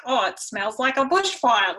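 lightly hammed-up Australian dad accent; bad Australian impression. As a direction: badly imitate a broad Australian accent. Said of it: "That's a really bad impression".

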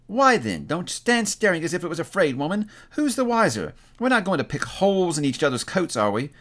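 high-pitched, challenging woman's voice; defiant woman. Acted. Woman scolds her staring companion, defiant.

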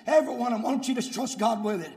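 insistent preaching, gathering force; urgent sermon appeal. Real, not acted. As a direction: plead with the congregation in a driving rhythm.

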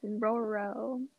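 slow, laughing through it. Real, not acted. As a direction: giggle out the ship name. Laughing while saying it.

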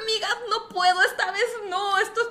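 high, laughing plea; laughing half-crying. Retold or imitated. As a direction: beg them through nervous laughter. Terrified, pleading with strangers, laughing. (riendo entre lágrimas)

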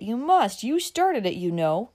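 high, teasing push; bantering. Acted. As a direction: tease her into drinking it. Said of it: "said one of the company banteringly".

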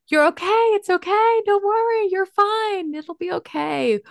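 high, sing-song placating parent voice; mock fussing parent reassuring a child; soothing parent. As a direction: hush a crying child in a high, over-cheerful voice. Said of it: "parents will say to, to a child when they're crying".

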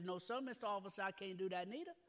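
softly voiced Louisiana accent, dropped r's. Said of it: "I'll throw a little accent in for you".

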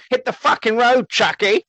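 mock angry brush-off. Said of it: "he turns round to Chuck and he goes".

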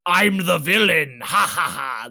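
a hint of cartoon bad guy gloating; classic villain laugh. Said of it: "a classic ... like, voice".

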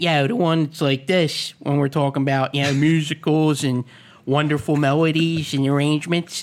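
Hoagie Mouth, the local Philly accent. Shown as a demonstration. Host showing his other accent, Philly Hoagie Mouth. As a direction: demonstrate a Philly accent in casual talk. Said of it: "but the other accent".

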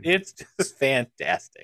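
low, slow creepy man voice. Acted. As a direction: drag it out like a creepy guy. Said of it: "why are you saying it like a creepy man right now".

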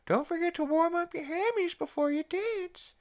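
very high put-on character voice; Herbert. Herbert in kid's clothes chatting at the school dance, very high put-on voice. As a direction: pipe it up high in a silly old-character impression. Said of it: "it's just Herbert in, in some kid's clothes".

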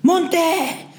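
high, loud barked command; shouted order. A narrator's reading. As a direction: bark it up the rope. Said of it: "shouted the continued".

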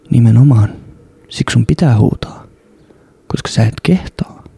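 calm Ibe. Retold or imitated. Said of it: "Ibe puhuu tosi rauhallisesti".

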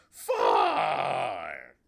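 shouted from across the room; Grover far. Retold or imitated. Grover far away again, shouting. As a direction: yell it from far off. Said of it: "Go back across the room".

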